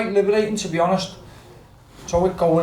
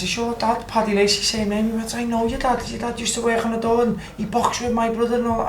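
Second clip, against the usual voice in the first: inmate's voice, much higher throughout; eager recognition, pitched up; imitating the fellow; 6 semitones higher than usual. Inmate recognising his dad's name, higher eager voice.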